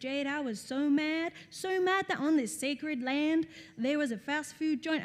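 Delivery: terrible, unconvincing put-on American accent. Retelling what a woman told her about a trip to Egypt, in a terrible American accent. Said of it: "I told you I've got a terrible American accent".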